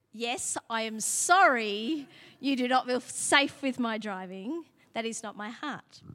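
slow, smiling obedient echo; smiling repeat. Retold or imitated. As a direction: say it back slowly with a smile. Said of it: "smiles and goes".

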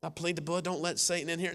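mock timid intercessor. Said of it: "Can you imagine some of our intercessors?".

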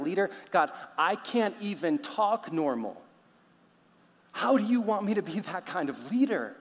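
incredulous protest. Acted. Moses balking at God sending him to Egypt, incredulous. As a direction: pile up the objections, rising in disbelief.

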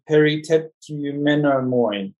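peritetumenomoi sounded out slowly and unsure, syllable by syllable; a careful, faltering try at peritetumenomoi; halting Greek attempt. Shown as a demonstration. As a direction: stumble slowly through peritetumenomoi as if reading Greek for the first time. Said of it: "Okay, I can't pronounce it".

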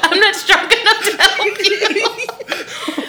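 slow, high, laughing; exaggerated helpless. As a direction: drag it out in mock despair. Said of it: "is what I told her".

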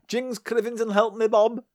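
put-on high-pitched comic Scottish accent. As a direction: ham up a cartoon Scot's accent. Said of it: "how you start a Scottish accent impression".

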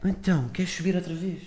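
very high sing-song then hushed; dog voice. Shown as a demonstration. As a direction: coo at the puppy in its voice. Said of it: "fazer esta voz de cão que eu estou a fazer".

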